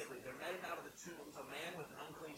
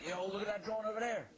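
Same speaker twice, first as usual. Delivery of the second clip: louder, higher Philly yo look at that John; Philly slang demo; 6 semitones higher, 7 dB louder than usual. Shown as a demonstration. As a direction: point it out like a Philly local.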